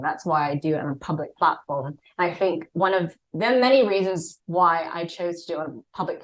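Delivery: relaxed put-on English accent. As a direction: keep the English accent going while chatting. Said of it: "I will be doing an English accent".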